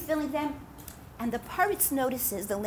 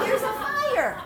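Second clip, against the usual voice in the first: much higher, slow cry; urgent cry; 12 semitones higher, 4 dB louder, slower than usual. Acted. Preacher echoing the fire warning, urgent and slow. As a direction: let it ring out. Punchline of the retold rebuke.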